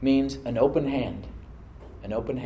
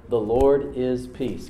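very slow, deliberate words; slow, weighty statement; slow proclamation; much slower than usual. Shown as a demonstration. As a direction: lay out each word for them to repeat. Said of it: "Can you say that with me?".

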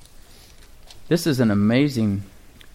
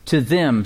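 "to them" with weight on to; "to them" said slowly with a falling end; stress on to them. Shown as a demonstration. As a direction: lean on "to" and let it fall. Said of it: "say, "To them".

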